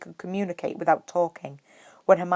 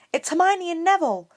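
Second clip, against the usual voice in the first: high, louder call through the door; calling back; 12 semitones higher, 5 dB louder than usual. A narrator's reading. Hermione answering Hagrid through the door, called out. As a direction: call out, a bit puzzled. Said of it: "Hermione called back, looking confused".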